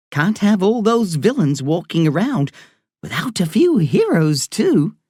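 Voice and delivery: put-on Irish woman doctor talking to a boy patient. A narrator's reading. Doctor voiced in story.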